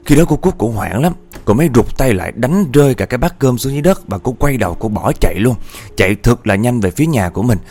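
lively spooky storyteller; ghost story narration. A narrator's reading. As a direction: tell it like a suspenseful ghost tale.

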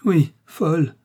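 high, loud, half-mad cry; deranged agreement; a half-mad woman echoing the word; frantic. A narrator's reading. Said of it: "répliqua Millicent".

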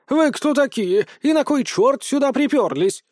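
high squawking scold; indignant hen. Acted. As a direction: shoo the strangers off like a hen. Chicken scolding intruders.

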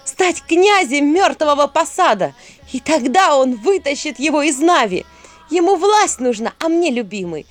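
loud, high cold witch voice; defiant witch. A narrator's reading. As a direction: lay out the deal with scorn. Witch explains her bargain defiantly.

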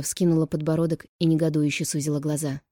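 ordinary delivery, nothing marked

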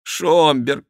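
high calls to a dear friend; pleading exclamation. A narrator's reading. Henri tries to calm raging Schomberg, pleading exclamation. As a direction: call out to him, imploring. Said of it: "воскликнул Генрих".

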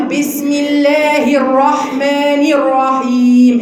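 very slow بسم الله الرحمن الرحيم, each r tapped once; slow recitation. Shown as a demonstration. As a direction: recite it slowly with single-tap r's. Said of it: "اتكررت معايا مرة واحدة".

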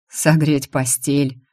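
slow, breathed-out words; exhaled. Acted. Rion hurt by her words, slow and breathed out. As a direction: breathe it out in disbelief. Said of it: "выдохнул он".

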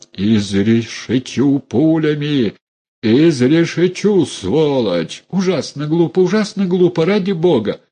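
voiced threat, then high frantic pleading; mild mock threat and panic. A narrator's reading. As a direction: shift from grim threat to shrill panic. (сдержанная угроза, затем высокая паника)

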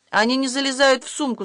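breathless panic. A narrator's reading. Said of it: "задохнулся Илья".

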